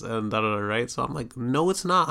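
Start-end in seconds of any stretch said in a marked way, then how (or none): 1.4-2.1 higher, pushy insistence on not; arguing back with the aunt, fed up; frustrated denial. Retold or imitated. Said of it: "I'm getting frustrated right now".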